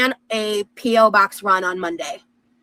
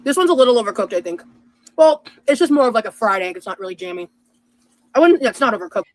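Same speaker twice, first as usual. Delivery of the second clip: talking with mouth full; words round a bite of food; 3 dB louder than usual. Real, not acted. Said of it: "it's great that you talk with your mouth full".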